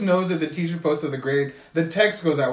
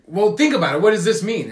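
higher and louder, talking down in a mock lecturing tone; mock condescending tutor; 4 semitones higher, 5 dB louder than usual. Tutor lecturing a confused student, in a mock condescending tone. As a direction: imitate a smug know-it-all explaining.

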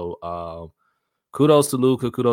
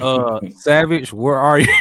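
calling out; 6 semitones higher, 10 dB louder than usual. Real, not acted. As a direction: call across the room. Calling out for a friend.

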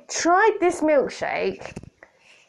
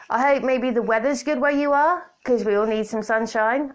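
through gritted teeth. Pretend. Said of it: "I say through gritted teeth".

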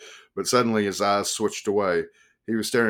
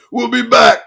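screaming; 14 dB louder than usual. A narrator's reading. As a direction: scream it back while running off. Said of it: "he screamed over his shoulder".

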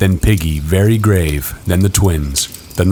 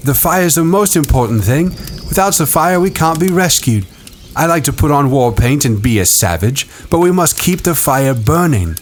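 put-on higher boy voice; Ralph voice; 8 semitones higher than usual. A narrator's reading. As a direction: voice young Ralph. Ralph speech.

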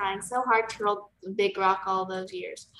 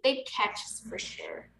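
kindly; 6 dB quieter than usual. Retold or imitated. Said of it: "says to Sunny a little more kindly".

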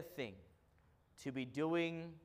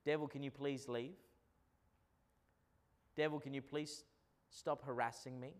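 softer, meek polite request to the devil; timid pleading; 4 dB quieter than usual. Shown as a demonstration. Pastor mocking a weak prayer, softer timid pleading. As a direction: ask nicely, almost begging. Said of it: "Don't be asking the devil".

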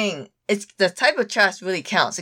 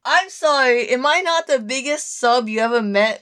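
mock indignation; 4 semitones higher than usual. Real, not acted. Mock indignant protest at friend's doubt.

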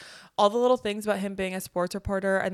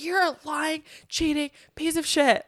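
higher, raised insult; mock outrage; 8 semitones higher, 4 dB louder than usual. Venting to cohost about the cheating character, mock outrage. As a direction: spit out the insult in mock anger. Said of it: "I was like".

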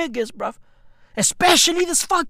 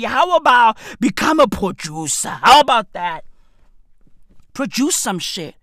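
mock lecture to friend. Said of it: "I was like".

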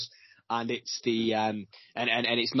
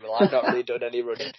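laughing through the line; giggling as he says it; 3 dB louder, faster than usual. Retold or imitated. Mock answer while laughing.

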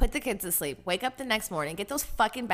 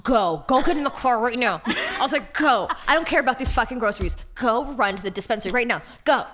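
loud, rushed orders to hurry; half-laughing frantic push to go; urgent yelling; 4 dB louder than usual. Retold or imitated. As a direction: hustle her out the door, fast and loud. Friend urging her to rush.

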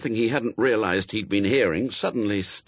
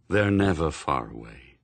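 solemn Death; 7 semitones lower than usual. A narrator's reading. Death answering a question, solemn low voice.

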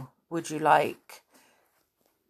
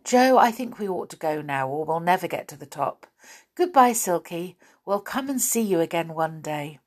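put-on lively storybook reading to a child; story narration. A narrator's reading. Parent reading the Faraway Tree to a child, lively storytelling. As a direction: read it like a bedtime chapter, voicing each part. Reads a bedtime chapter aloud.

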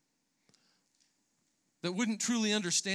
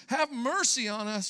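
mock yell; 4 semitones higher, 5 dB louder than usual. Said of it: "perhaps even yelling out".

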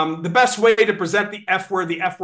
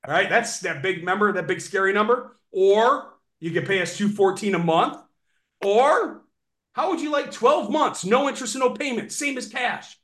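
pitching options. Shown as a demonstration. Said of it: "demo of pitch options".

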